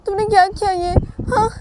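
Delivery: high, loud, tearful panic; scared crying. A narrator's reading. Wife crying to her husband, high and panicked. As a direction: sob out your fear to him. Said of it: "मुझे डर लग रहा है बहुत".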